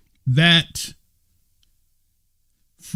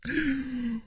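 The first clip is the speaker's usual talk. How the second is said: laughing; 11 semitones higher, 12 dB quieter than usual. Real, not acted. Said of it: "I can't read that".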